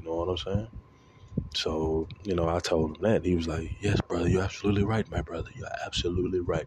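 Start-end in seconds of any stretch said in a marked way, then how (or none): 3.8-6.7 imitated African accent; retelling in a friend's African accent. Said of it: "let me stop doing the accent".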